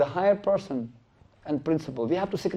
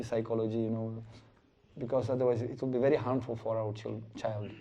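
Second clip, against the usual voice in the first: hushed parents; 3 semitones lower, 7 dB quieter than usual. Retold or imitated. Parents talking quietly between themselves.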